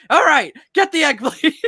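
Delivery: high, loud yell breaking into laughter; mock frantic shout. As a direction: burst out with a hammed-up command, then crack up. Smash cut to villain flying away.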